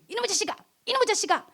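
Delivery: mock-scold a naughty child, hitting 이놈의; restrained retold scolding. Scolding child while spanking.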